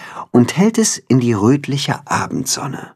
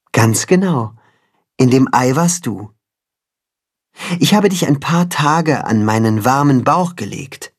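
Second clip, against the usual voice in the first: gentle voice; 4 semitones higher than usual. Acted. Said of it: "mit sanfter Stimme".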